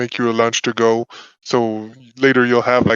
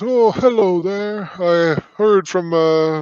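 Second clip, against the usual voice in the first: put-on pitched-up elderly priest voice; 7 semitones higher than usual. The game master voices an old man welcoming a player to a temple, elderly priest character voice. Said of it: "and you're welcomed by someone, / but I've been I'm over seventy years old and I've been a faithful all along, / Father. / but I've been I'm over seventy years old and I've been a faithful all along, /".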